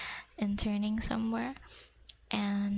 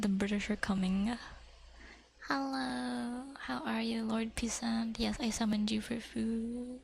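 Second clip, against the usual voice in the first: ASMR whisper. Acted. Whispering to viewers about fish cake. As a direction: whisper it close to the mic.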